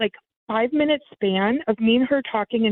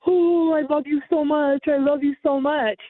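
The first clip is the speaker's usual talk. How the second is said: mock gushing; 4 semitones higher than usual. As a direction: lightly parody a sappy lover. Mocking expected gushing reply.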